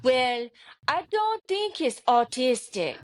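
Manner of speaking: put-on light Hispanic accent on the doctor's verdict; a hint of Hispanic accent from a calm doctor. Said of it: "I always like to talk in his accent".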